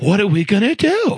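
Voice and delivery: lightly mocked Italian-American guy, distressed; a hint of an Italian-American accent. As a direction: plead like a Long Island Italian guy. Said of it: "he talked like this, Italian guy".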